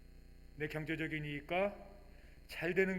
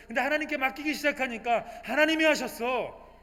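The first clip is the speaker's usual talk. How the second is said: higher and louder, pressing each claim; fervent testimony; 9 semitones higher, 11 dB louder than usual. Acted. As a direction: testify with rising conviction. Believer answers with testimony. (높고 힘 있게 간증하듯)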